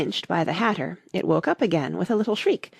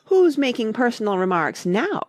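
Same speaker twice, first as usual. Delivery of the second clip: gloating, raised-voice retort; triumphant; 5 semitones higher, 4 dB louder than usual. A narrator's reading. Hatter crowing over Alice, triumphant. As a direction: score the point over her. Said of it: "the Hatter asked triumphantly".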